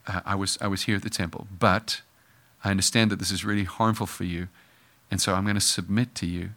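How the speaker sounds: soft, gentle and humble; gracious reply. Retold or imitated. Jesus softly answering his worried parents, humble. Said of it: "Jesus responded with grace".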